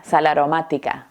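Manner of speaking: SAL AROMÁTICA joined as "salaromática"; mots liés. Shown as a demonstration. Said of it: "Es como si estuviéramos diciendo".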